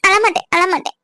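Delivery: promising not to cry through real tears. Real, not acted. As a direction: hold back the sobs as you speak. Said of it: "நான் அழுறது உனக்கு கஷ்டமா இருக்கா?".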